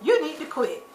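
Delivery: put-on loud, high "Girl" then firm; calling her out; scolding call. Telling Quita off, loud and high. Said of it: "I'm like".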